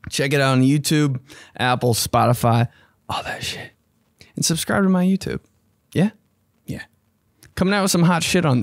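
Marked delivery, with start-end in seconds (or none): 3.1-3.7 a breathy throwaway whisper; whispered aside. Acted. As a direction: toss it off under the breath.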